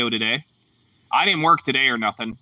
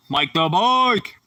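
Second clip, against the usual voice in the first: drawn-out greeting; 5 semitones higher, much slower than usual. Real, not acted. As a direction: stretch the name out like an announcer. Greeting a viewer by nickname.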